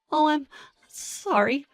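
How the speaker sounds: timid apology. Acted.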